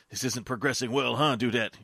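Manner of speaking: winded, panting words; out of breath. Acted. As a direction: puff it out after a fight. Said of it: "Kai puffed".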